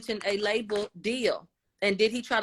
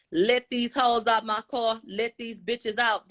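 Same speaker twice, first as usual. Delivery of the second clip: slow, higher-pitched demand; retold angry order; 3 semitones higher, slower than usual. Tory ordering the women out of his car, retold angry demand. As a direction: hammer out each word of the order, drawn out.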